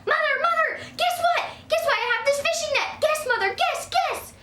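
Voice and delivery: put-on high, loud eager kid; bursting with excitement. Girl begging her mother to guess, high and loud. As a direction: bounce with impatience.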